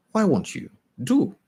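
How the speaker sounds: high, bright-eyed urging; a rich lady pressing a shy girl to come; eager coaxing. A narrator's reading. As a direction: coax her warmly upward. Eager invitation.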